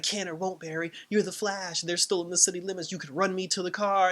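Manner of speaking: grilling. Retold or imitated. Fake Iris pushing Barry to run her to the car, mild grilling. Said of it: "she was just grilling him".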